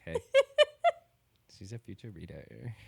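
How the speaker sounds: mock friendly stranger. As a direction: coo it like a chirpy stranger in a bookshop. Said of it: "That's how they talk".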